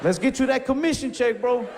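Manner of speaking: hammed-up high-pitched pep talk; mock hype. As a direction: hype him up with mock enthusiasm. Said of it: "I said".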